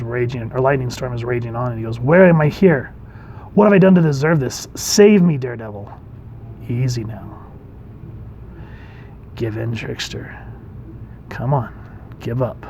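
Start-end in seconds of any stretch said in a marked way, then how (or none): 2.0-5.9 higher-pitched cry for rescue, lightly dramatized; mildly acted desperate plea. Trickster cries for rescue in storm. 6.7-12.6 calm coaxing. Acted. Hero talks trickster down.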